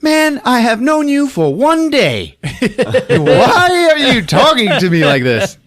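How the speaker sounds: high, slow hammed-up wail; mock crying woman. Crying woman protesting to near stranger, mock crying. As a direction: stretch it out in a high, laughing mock whine. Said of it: "She's crying. And she's like".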